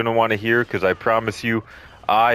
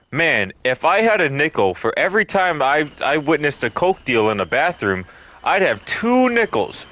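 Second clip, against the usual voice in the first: cartoon character voice; 4 semitones higher than usual. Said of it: "I was thinking of Phineas and Ferb".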